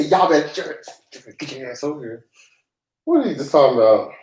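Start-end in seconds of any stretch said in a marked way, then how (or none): 0.0-2.3 Midwest y'all. Shown as a demonstration. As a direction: lean into a lazy Midwest y'all. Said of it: "You say".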